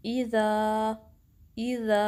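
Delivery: ईज़ा with a sharp hamza and a crisp ई at the start; sharp kasra. Shown as a demonstration. Teacher demonstrates ईज़ा with a sharp kasra. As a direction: hit ईज़ा's opening ई crisply from the throat. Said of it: "अब आप मेरे साथ practice करें".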